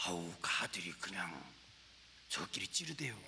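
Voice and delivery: 충청도 사투리로 작게; Chungcheong dialect. Retold or imitated. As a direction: mumble it like a shy Chungcheong farmer. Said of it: "내가 충청도 말로 설교를".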